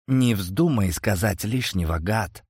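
ordinary delivery, nothing marked

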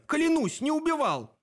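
high, pleading oath; desperate vow. A narrator's reading. Dan swears to Sep he is innocent, high and pleading. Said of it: "возопил Дэн".

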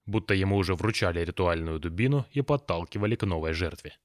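plain reading voice

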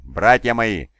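lilting, apologetic call to his brothers; singsong apologetic. A narrator's reading. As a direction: sing it out gently, as if apologising. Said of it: "начал Фулгрим напевным, извиняющим голосом".

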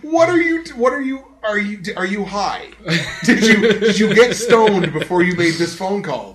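high, laughing incredulity; laughing disbelief. Retold or imitated. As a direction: laugh through it, can't believe her.

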